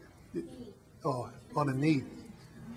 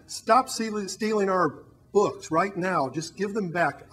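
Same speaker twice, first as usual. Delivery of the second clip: mild shout; 4 semitones higher, 7 dB louder, slower than usual. Acted. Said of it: "and shouted to the thing outside".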